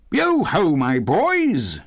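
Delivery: high, hearty holler; Fezziwig's jovial call. A narrator's reading. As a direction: hail the lads merrily, starting high. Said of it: "jovial voice".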